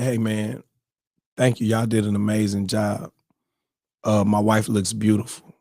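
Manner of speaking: low, calm grandfather's thanks; imitating an unruffled grandfather; cool and composed. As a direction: say it evenly, keeping your composure. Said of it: "my grandfather has been cool as ice".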